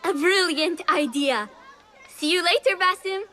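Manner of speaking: high, loud, excited agreement; delighted. Acted. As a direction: call out happily while taking leave. Delighted child agrees, calls goodbye.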